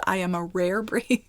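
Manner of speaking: giggling through the word breed; amused half-laughed aside; laughing repeat. Real, not acted. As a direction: laugh as you land the joke again.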